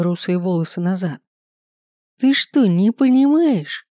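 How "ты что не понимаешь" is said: high, loud and slow furious shout; furious outburst. A narrator's reading. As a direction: explode at his daughter. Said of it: "взвился отец".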